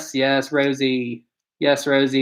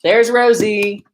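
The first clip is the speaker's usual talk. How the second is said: slow, high, loud doggy greeting; drawn-out pet talk; 7 semitones higher, 6 dB louder, much slower than usual. Real, not acted. Owner showing Rosie to viewers, slow high pet talk. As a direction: stretch it out for the dog.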